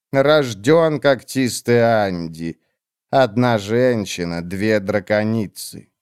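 cold witch. Acted. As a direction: drag each word out, icy and dismissive. Olar slow.

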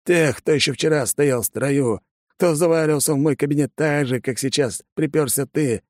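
a hint of an old commander lecturing; fatherly stern colonel. A narrator's reading. Colonel lecturing the young soldier, stern and fatherly. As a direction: talk sense into the boy.

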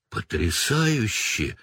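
slow, drawn-out delight; admiring. Acted. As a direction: savor the word in wonder. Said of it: "восхитился Гарри".

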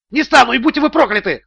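high, loud cry back; defiant yell. A narrator's reading. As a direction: hurl the curse back. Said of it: "завопил в ответ Стоун".

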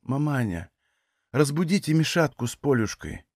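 put-on dying woman begging to see her children; quiet plea. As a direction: ask with the last of your strength. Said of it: "тихо попросила".

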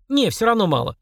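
put-on high little boy voice; boy declaring stubbornly; child's voice. A narrator's reading. Boy haggling with the demon, high child voice. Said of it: "заявил Денис".

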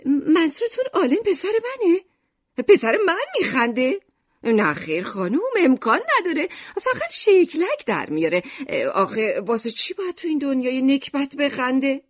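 high, loud objection; indignant protest. Acted. Shopkeeper mother denies her son could laugh, indignant. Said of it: "با اعتراض گفت".

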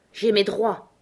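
a touch of wounded protest; whining. A narrator's reading. Beauty Smith protesting his rights to Scott, whining. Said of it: "gémit-il".

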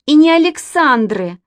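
выше и громче, с вызовом; детское возражение; обиженно. A narrator's reading. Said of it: "сказала Катя". (Катя громко возражает)

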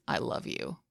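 a breathless whisper. A narrator's reading. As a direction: let the words fall to a whisper. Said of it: "that one definitely was".

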